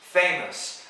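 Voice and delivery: "Famous" as FAY-muss; correct pronunciation. Shown as a demonstration. Teacher asking learners to listen, correctly pronounced. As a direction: say "Famous" stressing FAY, with a weak ending.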